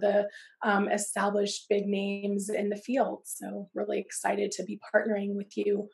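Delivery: hoarse, scratchy voice from a cold. Real, not acted. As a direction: talk through a scratchy throat. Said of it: "apologize for my scratchy voice".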